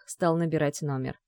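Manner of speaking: ordinary delivery, nothing marked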